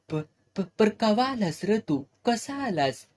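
flustered, high surprised questions; stammering surprise. Acted. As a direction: caught off guard, stumbling over the words.

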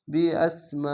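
"মা" held long in "বি আস মা"; four-alif elongation. Shown as a demonstration. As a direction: stretch the vowel of "মা" on a steady note. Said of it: "চার আলিফ টান". ("মা" চার আলিফ টেনে পড়া)

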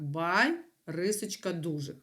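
teacher shows the class how «бай» and «дужих» divide; syllables spelled out. Shown as a demonstration. Teacher dictating syllables, split clearly. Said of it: "ви повинні були написати ось так".

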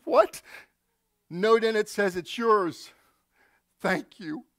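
high startled what; stunned coach. Acted. Coach finding the new truck, stunned. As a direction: coach overcome by the gift.

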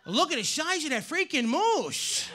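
tough-talking Brooklyn guy; mock Brooklyn accent. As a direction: talk like a cool Brooklyn guy refusing a favor. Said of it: "cool guys from Brooklyn with that accent".

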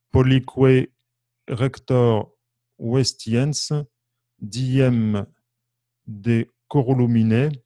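lire le texte latin lentement, syllabe par syllabe; réciter l'hymne posément; lecture lente du latin. Shown as a demonstration. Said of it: "je vais vous le lire". (lecture posée et solennelle du latin)

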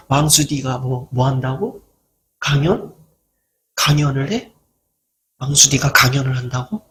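low, scornful, disbelieving mock voice; a scornful jeer about the speaker giving a talk; sneering mockery. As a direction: imitate a scoffer who jeers at the idea. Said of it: "말하는 사람도 있더라고요".

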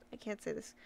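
very soft mutter of defeat; quiet defeated mutter; muttered aside. Real, not acted. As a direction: drop almost to nothing, giving up. Giving up on a name.

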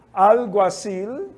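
slow demo word. Shown as a demonstration. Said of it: "é a libélula".

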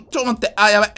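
ordinary delivery

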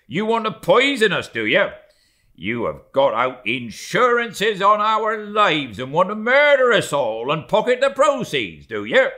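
high, loud, fast accusing tirade; mate threatening the steward, loud and fast; angry mate. Acted. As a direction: tear into the steward. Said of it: "cried Stubb".

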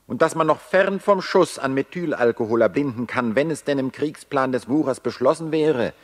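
a building, indignant reckoning; accusing tirade. Acted. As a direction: hurl the charges at them with mounting scorn. Accusing the war's ringleaders.

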